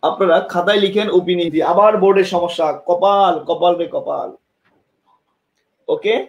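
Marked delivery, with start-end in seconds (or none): 2.9-4.3 slow, sighing woe is me; drawn-out bemoaning of bad luck; slow, rueful lament. Real, not acted. Board fails again.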